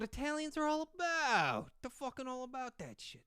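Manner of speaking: high, hammed-up Italian-American accent; playful caricature of an Italian accent. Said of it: "Accent plus funny hand gestures".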